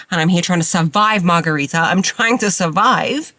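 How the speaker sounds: overwhelmed, dramatic plea; hammed-up cry of survival; mock exasperated. Exasperated outburst.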